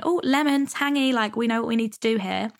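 a hint of cartoon taste buds; playful taste buds voice. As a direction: voice the taste buds as excited little characters. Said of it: "your taste buds start going".

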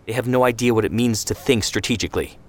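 high, pushed indignant tirade; heated rant. Acted. Ben Shemen berates Zvi about the Etzel, heated. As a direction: hammer him with each point.

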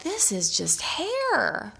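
acted-out frustration at being so upset; retold exasperation. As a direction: plead with yourself in disbelief. Retells scolding herself while crying.

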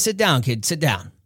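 low, easy authority of the big boss; mafia boss. Retold or imitated. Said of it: "Sonny says".

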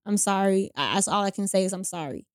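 understated, drained sorry; tired apology. Retold or imitated. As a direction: apologise as if worn out. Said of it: "just, like, tired".

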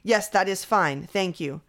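stiff, formal reply; lightly voiced robotic dad; automated response voice. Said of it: "It sounds like an automated response".

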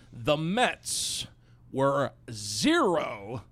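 zero drawn out, slow and low; "zero" stretched long and slowly; slow emphatic stat. Shown as a demonstration. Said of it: "Let me repeat that".

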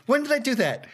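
high puzzled protest; indignant disbelief. Pretend. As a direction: ask it as if truly baffled.

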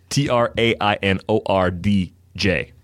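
slow letter-by-letter spelling of "T R A I N O R D J"; spelled out. Shown as a demonstration. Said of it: "I just want people to spell it correctly".

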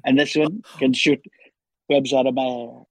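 lightly voiced boastful president impression; Donald Trump. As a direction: play a rambling, self-congratulating president. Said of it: "back to Trump".

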